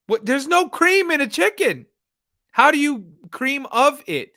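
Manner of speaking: heated, high-pitched disbelief. Real, not acted. Ranting to viewers about TikTok soup recipes, heated. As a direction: get worked up and pitch it high. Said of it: "I'm getting heated".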